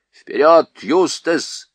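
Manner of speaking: loud barked command. A narrator's reading. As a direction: order him forward, loud and sharp. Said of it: "скомандовал Хмур". (громкая команда)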